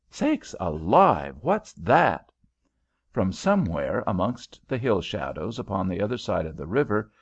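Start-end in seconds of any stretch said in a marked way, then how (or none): 0.1-2.3 sudden alarmed cry, louder; startled aunt. Acted. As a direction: jump at the noise.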